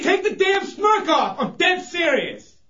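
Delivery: shouting, dead serious; angry shouting. Acted. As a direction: yell at them to stop smirking. Angry host scolds laughing co-hosts.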